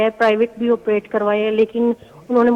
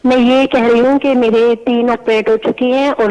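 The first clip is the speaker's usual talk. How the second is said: a bit louder for the caller line; repeating it louder on request; speaking up; 4 dB louder than usual. Real, not acted. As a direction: raise your voice so the host hears. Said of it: "اونچا بولیں".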